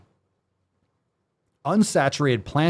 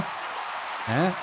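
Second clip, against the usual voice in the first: whisper; 4 semitones higher, 7 dB quieter than usual. Real, not acted. Whispered prodding question.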